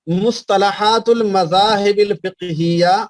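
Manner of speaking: slow, spaced out for writing down; slow dictation. Shown as a demonstration. Teacher dictating a book title to students, slow and spaced. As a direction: spell the title out slowly so they can copy it. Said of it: "اس کا حوالہ بھی لکھ لیجئے".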